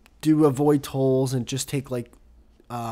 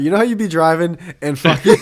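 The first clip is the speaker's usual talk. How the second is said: rapper voice; 4 semitones higher, 8 dB louder than usual. Acted. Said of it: "I can't help it".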